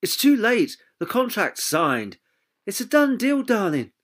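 high, over-the-top acting coach voice; a pushy agent sealing the deal, hammed up; husky businesslike voice. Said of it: "breathy and husky businesslike voice".

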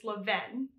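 Levain said as luh-VAN; corrected pronunciation. Shown as a demonstration. Vlogger sharing the bakery name she learned, Levain as luh-VAN. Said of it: "I recently learned it's Levain".

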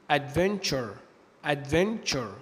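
"adventure" as ad-ven-cher; ture as cher. Shown as a demonstration. Teacher repeating an example word, "adventure" with ch. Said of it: "ففي الغالب بينطقوا تش".

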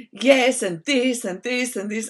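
rapid, fired-up yes and this and this; full-on emotional agreement. Retold or imitated. To a friend with marriage troubles, fired-up agreement. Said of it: "full on".

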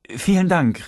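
grateful outburst; glad exclamation. A narrator's reading. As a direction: call out your thanks, half laughing.

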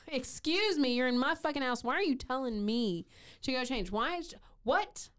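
high, outraged disbelief; reading the heroine's outraged reply; indignant heroine. Acted. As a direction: play her offended at being ordered around. Heroine indignant at being told to change.

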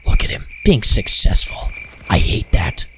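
low, grudging envy; mock resentment. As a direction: grumble low about a rival. Mock envy of another player.

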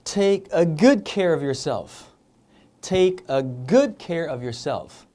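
very slow, good punched; slow stressed good. Shown as a demonstration. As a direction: draw it out, lean on good. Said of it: "몸조리 좀 잘 좀 하라규". (아주 천천히, good 강조)

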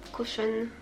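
ordinary talk, nothing marked

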